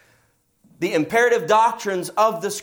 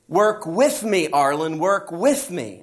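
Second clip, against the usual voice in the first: joking but emphatic; slower than usual. Retold or imitated. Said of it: "he was joking, but he was very emphatic".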